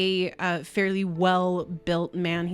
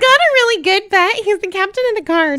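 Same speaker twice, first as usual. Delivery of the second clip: giggly; 12 dB louder, faster than usual. Real, not acted. GM still giggly after joke.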